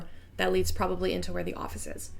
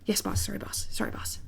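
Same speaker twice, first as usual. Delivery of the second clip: timid whisper; 5 dB quieter than usual. Acted. Cowed worker apologizes softly.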